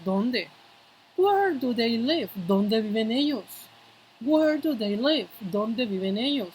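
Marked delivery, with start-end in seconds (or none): 1.2-2.3 slow, drawn-out example question; deliberate teacher's demonstration, falling at the end; slow model pronunciation. Shown as a demonstration. 4.2-5.3 slow example question, pitched higher; deliberate, higher teacher's demonstration; slow model pronunciation. Shown as a demonstration. Teacher repeats example question slowly.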